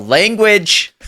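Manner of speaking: high, loud reprimand; sharp parental telling-off; yelled scolding. Acted. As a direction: yell it like a scandalised dad. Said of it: "I yell".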